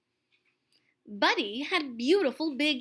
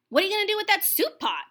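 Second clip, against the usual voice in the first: curious; 8 semitones higher, 3 dB louder, much faster than usual. Acted. Curious bunny asking fast.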